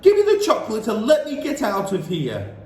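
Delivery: insist, getting uneasy; boy wants out now; suspicious boy. A narrator's reading. Bruno growing suspicious.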